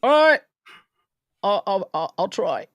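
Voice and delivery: high, sheepish promise; sheepish reply. Retold or imitated. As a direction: play the meek husband caught out. Husband answering scolding wife.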